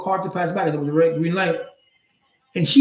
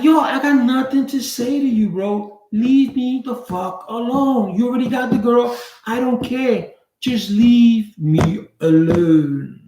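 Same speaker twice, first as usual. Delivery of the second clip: angry; 4 semitones higher, slower than usual. Retold or imitated. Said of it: "'cause I was mad".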